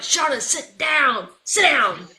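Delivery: high, drawn-out command; exasperated order. Retold or imitated. Coach to a pleading player, exasperated order. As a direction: send the player off, fed up.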